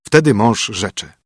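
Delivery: ordinary delivery, nothing marked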